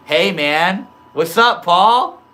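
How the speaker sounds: loud, high hype greeting; excited greeting. Real, not acted. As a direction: call out his name with big energy. Greeting a chat viewer again.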